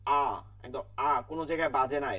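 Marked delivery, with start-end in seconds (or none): 0.1-1.1 আ as a clean open vowel, not nasal; একদম আ, the hamza sound demonstrated slowly; pure open vowel. Shown as a demonstration. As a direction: say আ plainly from the throat, no nasal sound. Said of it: "হামজার উচ্চারণটা স্বরে আ".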